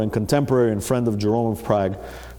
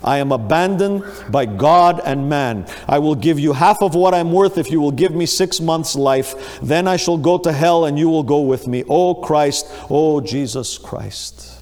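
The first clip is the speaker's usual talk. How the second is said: desperate cry. Retold or imitated. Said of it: "he cried out most desperately".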